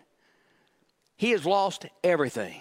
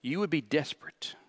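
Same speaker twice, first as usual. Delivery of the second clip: hushed whisper; 6 dB quieter than usual. Real, not acted. Pastor whispering to the congregation about despair, hushed.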